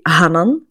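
Hanan said the Belgian way; Belgian pronunciation. Shown as a demonstration. Host demonstrating how Belgians say her name, Belgian "Hanan". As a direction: say "Hanan" as Belgians do, with open a vowels. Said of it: "So Belgians usually say".

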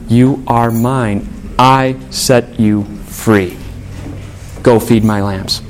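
low, slow, deliberate assurance; gently reassuring. Acted. Preacher voicing Jesus to forgiven Peter, gently reassuring. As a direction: give each word room, tenderly.

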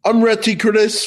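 hammed-up British accent, eager and cheeky; mock British accent. Co-host teasing the listener Ed from the UK in a mock British accent. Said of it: "that was horrible".

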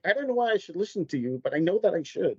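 soft, awed, half-whispered admission; awed hush. Retold or imitated. Echoing the host's awed tone about the mentor, softly impressed. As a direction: play it hushed and impressed. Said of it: "just the way you said that".

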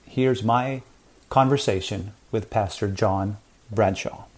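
measured, scripted host introduction; podcast intro read. Acted. Host welcomes listeners and introduces today's guest, scripted intro read. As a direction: read the episode intro to listeners, evenly paced.

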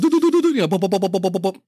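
drum noises. Retold or imitated. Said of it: "he's spinning, goes".

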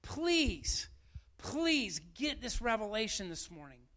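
sincere plea. Real, not acted. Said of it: "I'm saying this morning as your pastor".

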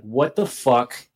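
slow, stunned disbelief; retold flabbergasted. Just slapped by his ex, mildly flabbergasted. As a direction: draw it out, mildly dumbfounded.

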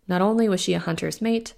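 ordinary delivery, nothing marked

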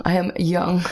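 lightly voiced dad, mock proud; a hint of a dad joke voice; a dad answering with a pun; imitating dad. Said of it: "He go, Young".

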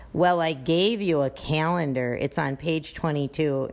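mildly snippy reply that puts the blame back on the parent; a touch of condescension; condescending. Retold or imitated. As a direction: talk down to the caller a little. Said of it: "sounds like you're a condescending".

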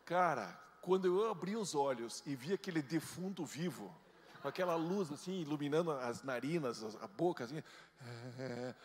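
loud, breathless rush of the scare; loud, excited horror; worked-up retelling. Real, not acted. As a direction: relive the shock in a burst. Retelling fright on beach.

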